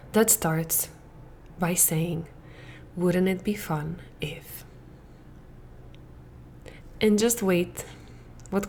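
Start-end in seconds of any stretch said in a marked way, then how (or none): 3.0-4.6 hushed, gently curious whisper; a soft inviting whisper; soft whispered question. Shown as a demonstration. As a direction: whisper it softly, playful. Gentle quoted thought.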